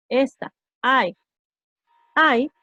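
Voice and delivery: I said like English eye; letter I. Shown as a demonstration. Teacher names the letter I for students. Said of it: "así es como yo digo".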